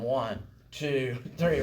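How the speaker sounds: slow counted beat in the ear; counting the beat. Shown as a demonstration. Song leader counting beats to a student, steady count. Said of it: "I'm sitting here in your ear going".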